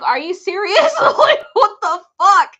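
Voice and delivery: a retold angry "are you serious"; mad disbelief. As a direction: confront him, fed up, right in his face. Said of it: "I got mad".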